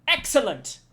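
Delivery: put-on high, loud excited cry in a shaky French accent; bad French accent. Cook delighted with the ingredients, loud in a bad French accent. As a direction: cheer it like a thrilled French chef. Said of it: "I'm trying to give him a French accent".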